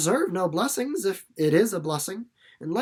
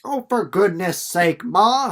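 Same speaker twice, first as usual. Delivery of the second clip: exasperated; 7 dB louder, slower than usual. Acted. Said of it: "said Jessie".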